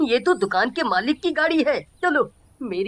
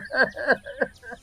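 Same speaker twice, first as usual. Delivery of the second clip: 1 sob; 3 semitones higher, 3 dB quieter than usual. Acted. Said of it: "वो दोनों ही बहुत रो रहे थे".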